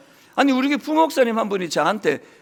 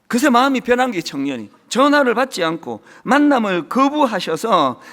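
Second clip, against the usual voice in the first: slightly louder, earnest reading of a story; reading aloud; 4 dB louder than usual. Acted. Pastor reads the volunteer's story to the congregation, earnest and a bit louder. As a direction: read the newsletter out to the church.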